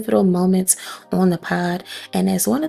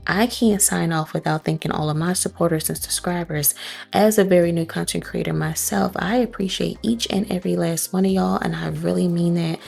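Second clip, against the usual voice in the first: passionate; 3 semitones lower than usual. Real, not acted. Heartfelt thanks to subscribers.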